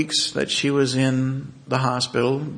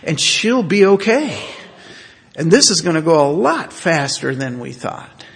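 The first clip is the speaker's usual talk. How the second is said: louder, higher eager rush of good news; excited explanation; 5 semitones higher, 8 dB louder than usual. Retold or imitated. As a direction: explain it like it's wonderful news.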